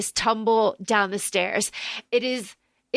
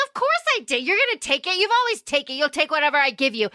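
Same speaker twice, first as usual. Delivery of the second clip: lightly acted wife's comeback, pitched up; mock defiant retort; much faster than usual. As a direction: imitate her taunting him, quicker at the end. Retold marital argument, wife retorts.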